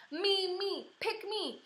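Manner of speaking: high, eager yell to be picked; hollering boy. A narrator's reading. Meanie Jim hollering at the teacher to pick him. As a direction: shout to get chosen first. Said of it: "he hollered".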